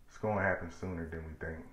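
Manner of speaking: soft, low, fast menace; quiet threat. Retold or imitated. Telling the smiling killer it will come, a quiet threat. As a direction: say it under your breath like a vow. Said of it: "I said".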